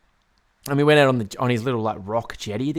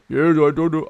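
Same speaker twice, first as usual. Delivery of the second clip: garbled, louder attempt at a Hungarian accent; higher, nonsense-mumble Hungarian impression; failed Hungarian accent; 4 semitones higher, 5 dB louder than usual. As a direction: badly fake a thick Hungarian accent. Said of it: "I don't know how you do a Hungarian accent".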